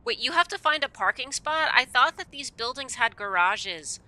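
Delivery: high and loud disbelief; incredulous. Real, not acted. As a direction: question it in disbelief. Indignant about parking.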